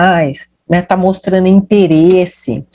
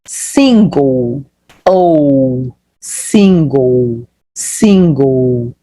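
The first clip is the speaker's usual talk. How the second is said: "single" very stretched, in a lower pitch; slow pronunciation model; 8 semitones lower, much slower than usual. Shown as a demonstration. Teacher shows learners a new word, slow pronunciation model. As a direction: draw out both syllables of "single", low. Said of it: "Ó, single".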